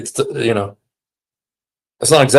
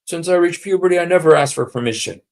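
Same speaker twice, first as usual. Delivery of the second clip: mock quote; 7 semitones higher, faster than usual. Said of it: "He says".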